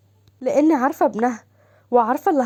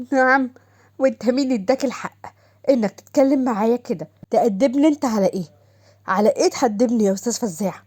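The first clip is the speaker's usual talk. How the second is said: defiant wife. Acted. Wife defies husband in car.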